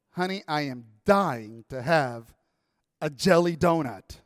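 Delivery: low, slow pleading wife; wife's craving voice. Retold or imitated. Husband retelling his wife at midnight, slow pleading. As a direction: coax it like a sleepy craving wife.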